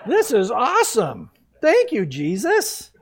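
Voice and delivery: high, loud, slow happy shout with a laugh; overjoyed mock exclamation; joyful praise. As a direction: celebrate a lucky find. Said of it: "I'd be going".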